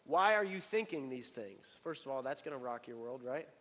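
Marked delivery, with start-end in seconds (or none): 0.0-1.8 Why spoken slowly and deliberately; Jesus confronting the scribes, slow and weighty; slow, weighty question. Acted. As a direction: lean into each word slowly. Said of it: "this is what he said to them".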